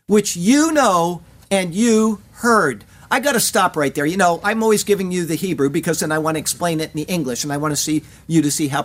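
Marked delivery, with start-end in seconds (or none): 0.1-2.8 slow, leaning hard on each "you"; stress on you. Shown as a demonstration. Preacher explaining Moses' emphasis to congregation, slow stressed "you". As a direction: spell out "you know" and "you heard" slowly, pressing "you". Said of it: "The words of Moses bear an emphasis".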